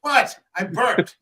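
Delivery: sudden high startled what; surprised. Real, not acted. Reacts to laughter over burp.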